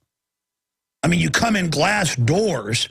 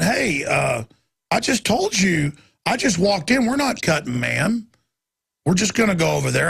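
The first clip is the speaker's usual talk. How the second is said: lightly voiced Mayberry sheriff. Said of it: "I kinda sounded like, you know, the sheriff in Mayberry".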